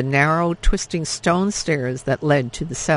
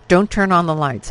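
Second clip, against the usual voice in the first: harsh; 3 semitones higher, 5 dB louder than usual. Acted. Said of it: "her father said harshly".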